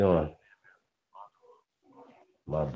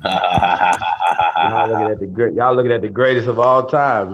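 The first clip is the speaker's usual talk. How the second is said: drawn-out, louder bragging call; hyped boast; 3 semitones higher, 8 dB louder, slower than usual. Real, not acted. Host hyping himself to the live chat, drawn-out loud boast. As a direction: stretch it out like a hype man.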